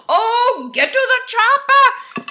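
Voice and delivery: high, loud shouted line; mock Schwarzenegger yell; movie action shout. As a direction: bellow it like an action hero. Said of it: "quoting movie line".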